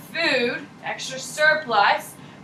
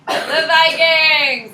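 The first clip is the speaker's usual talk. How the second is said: excited; 4 semitones higher, 11 dB louder, much slower than usual. Real, not acted. Teacher answers excitedly, laughing.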